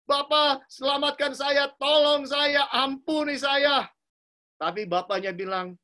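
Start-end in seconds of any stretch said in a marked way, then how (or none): 0.1-3.9 higher, louder, begging father to save him; a son crying out for mercy, slowing at the end; tearful pleading. Retold or imitated. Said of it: "anaknya pun menangis kepada bapaknya". (memohon sambil menangis kepada ayahnya, suara tinggi)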